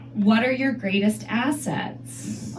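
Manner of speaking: slow, mock-formal interview question; lightly voiced interviewer, drawn out; job interviewer. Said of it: "like I'm going to a job interview".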